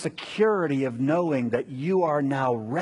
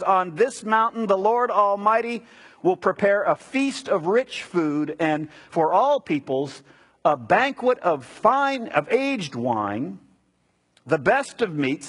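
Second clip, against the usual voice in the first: raised, emphatic pulpit reading; scripture reading; 4 semitones higher than usual. Acted. Preacher proclaiming Isaiah's prophecy to the congregation, emphatic scripture reading. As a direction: proclaim each phrase, pausing between them.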